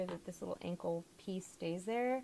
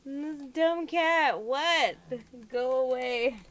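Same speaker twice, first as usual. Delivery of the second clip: louder, higher, slowed scolding; shooing the cat; 5 semitones higher, 8 dB louder, slower than usual. Real, not acted. Chasing her sister's cat off the table, loud scolding. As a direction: shoo the cat off firmly.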